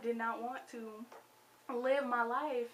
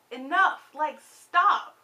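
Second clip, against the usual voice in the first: louder, a sharp cry of enough; exasperated stop; 5 semitones higher, 12 dB louder, much slower than usual. Real, not acted. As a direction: cut it off, fed up. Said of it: "It made me so mad".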